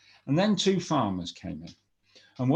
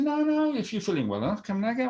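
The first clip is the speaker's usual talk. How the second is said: king's voice; 11 semitones higher, faster than usual. Acted. King answers wife.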